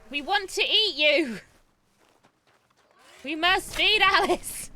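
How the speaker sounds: high, loud, slow goofy villain voice; hammed-up battle cry; silly high yell. Hunting animals for Alice.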